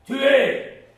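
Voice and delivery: bay for blood; shouting kill. Acted. Assassins shouting at fleeing victims to kill them. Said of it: "crièrent les assassins".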